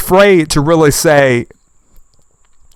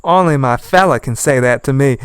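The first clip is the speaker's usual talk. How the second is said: mocking quote. Imitating the woman's huffy reply to a commenter. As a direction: parrot her huffy reply. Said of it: "she says".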